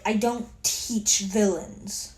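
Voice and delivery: slow, deliberate imitation of a teacher; stern retold verdict. Aizawa telling the class he won't teach villains, stern. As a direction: space it out, a measured pronouncement.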